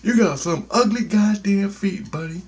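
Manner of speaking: high mock yell of an insult; blurted yell. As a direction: blurt it out like an uncontrolled inner voice. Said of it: "it just yells out".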